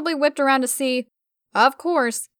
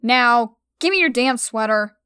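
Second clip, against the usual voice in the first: demanding; 4 dB louder than usual. Acted. Demanding sweater.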